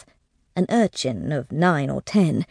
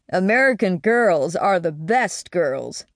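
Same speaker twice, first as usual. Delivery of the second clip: cheerful; slower than usual. A narrator's reading. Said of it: "he said cheerfully".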